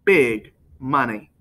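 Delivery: slow, coaxing repeat of the offer; slow tempting murmur; soft persuasive. A narrator's reading. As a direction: dangle it slowly like bait. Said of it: "in his soft, persuasive voice".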